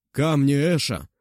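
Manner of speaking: put-on loud call to the old man. A narrator's reading. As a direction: call out the command. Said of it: "подал знак старику Кай".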